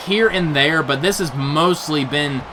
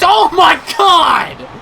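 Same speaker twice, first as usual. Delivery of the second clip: shocked shout; 12 semitones higher, 6 dB louder, much slower than usual. Real, not acted. Catapult into brutal spot.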